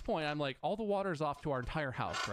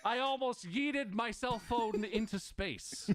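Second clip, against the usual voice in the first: exasperated; 8 semitones higher, slower than usual. Real, not acted. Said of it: "I almost fucking threw my phone".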